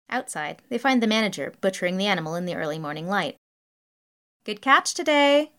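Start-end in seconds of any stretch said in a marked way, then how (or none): 4.4-5.5 high, loud, slow cheery greeting; cheerful. A narrator's reading. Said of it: "she tells them cheerily".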